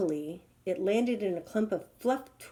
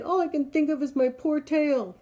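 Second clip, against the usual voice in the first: high, louder self-pity; lightly whining lion; 7 semitones higher, 5 dB louder than usual. Acted. Lion answering the rhino, lightly whining. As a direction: moan about the tail.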